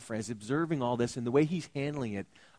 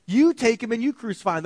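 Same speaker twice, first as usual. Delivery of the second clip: a louder, higher-pitched Pilate; dismissive order to the crowd; 9 semitones higher, 8 dB louder, faster than usual. Acted. Preacher voices Pilate again.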